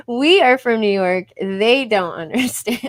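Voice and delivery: loud, emphatic declaration; imitated proud announcement, forceful; quoting Daniel. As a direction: proclaim it loudly, slowing at the end. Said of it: "Like Daniel says".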